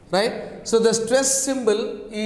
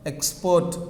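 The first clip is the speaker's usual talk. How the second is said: "export" with the second syllable stressed; stress on last syllable. Shown as a demonstration. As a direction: put the weight on the end of "export". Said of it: "on last syllable".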